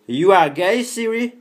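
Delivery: high, loud accented English question; teasing question shouted at the assistant; loud English to Siri. Real, not acted. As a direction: call the question out to the phone.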